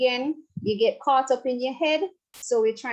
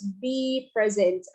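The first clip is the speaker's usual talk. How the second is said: slow mantra; slower than usual. Shown as a demonstration. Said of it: "you can use a mantra".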